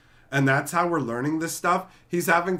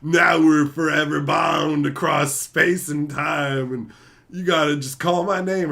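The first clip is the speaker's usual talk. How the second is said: slow, louder Scottish-tinged mentor voice; Sean Connery impression; 5 dB louder than usual. Sean Connery bonding with the Highlander, slow and grand. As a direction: intone it like a solemn Scottish mentor. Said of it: "and he's like".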